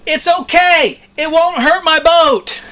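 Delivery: high, unbothered voice for the captain; captain's reply. Retold or imitated. Shrimp boat captain dismissing sailor's complaint, a lightly voiced high easy reply. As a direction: brush it off like the careless captain. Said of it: "And he said".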